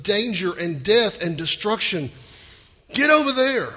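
angel hurrying Lot, firm and loud; urgent command. Retold or imitated. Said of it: "God says through the angel".

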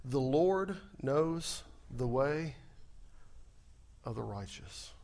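slow reverent quote; quoting scripture. Shown as a demonstration. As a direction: read the phrase slowly. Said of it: "Did you notice the little phrase?".

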